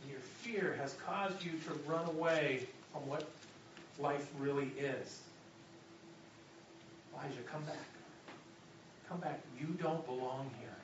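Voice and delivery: soft, hushed intimate voice; preacher speaking as God in a whisper. Acted. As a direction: whisper it close, like God to Elijah. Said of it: "let me whisper it".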